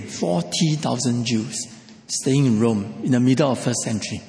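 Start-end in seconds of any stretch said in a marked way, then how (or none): 0.0-1.6 forty thousand Jews, slow, stress on forty; slow repeated emphasis. Shown as a demonstration. Preacher repeating to the congregation, slow emphasis on forty. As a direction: lean on forty, slowly. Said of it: "Let me say again".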